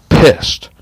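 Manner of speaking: sudden loud, high angry snap; angry burst. Real, not acted. Venting alone to camera, bursting out angry. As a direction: blurt it out, really fed up. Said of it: "right now I'm just, like".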